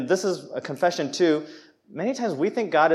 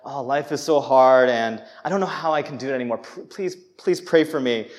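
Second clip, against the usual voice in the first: humble brag. Retold or imitated. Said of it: "I'll be like".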